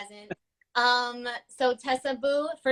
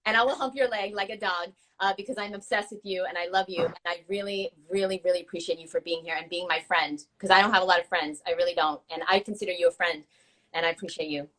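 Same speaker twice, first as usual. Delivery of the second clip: sincere goodbye speech; 2 semitones lower than usual. Acted. The speaker's heartfelt goodbye speech to guest Tessa, sincere. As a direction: speak from the heart to a friend. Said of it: "my goodbye speech".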